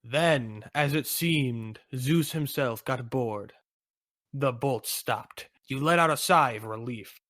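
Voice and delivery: slow, suspenseful storyteller; story narration. Acted. Narrator telling of Zeus giving up, slow story narration. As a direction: narrate slowly as danger passes.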